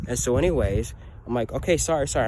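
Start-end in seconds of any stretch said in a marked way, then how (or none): 1.5-2.3 high, louder shaky-feeling sorry; retold frightened sorry; scared apology. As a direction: hold back tears while apologizing. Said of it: "I'm trying to hold back tears".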